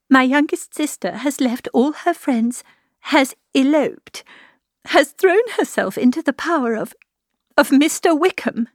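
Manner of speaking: high, distressed voice, climbing toward despair; rising pitch, halting with distress; anguished confession. A narrator's reading. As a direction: break the dreadful news in mounting anguish. Distressed confession of sister's elopement.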